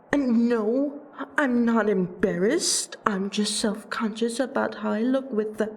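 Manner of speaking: flustered denial of being embarrassed. Acted. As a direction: protest too much, self-consciously. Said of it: "you are embarrassed".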